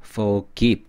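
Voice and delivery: "forgive" with the accent on give; second-syllable stress. Shown as a demonstration. Teacher explaining the accent of forgive, second syllable stressed. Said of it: "두 번째 액센트가 있어서".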